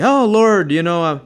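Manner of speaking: a hint of a careless, half-hearted prayer; lightly mocking a casual prayer; flippant prayer. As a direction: toss off the prayer like a last resort. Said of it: "asking flippantly".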